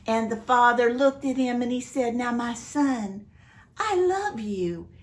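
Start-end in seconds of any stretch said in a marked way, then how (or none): 2.2-4.9 tender. Acted. Father comforts older son.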